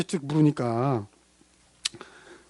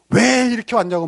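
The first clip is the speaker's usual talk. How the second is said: mock angry complaint; 5 semitones higher than usual. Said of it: "막 화를 내는 사람".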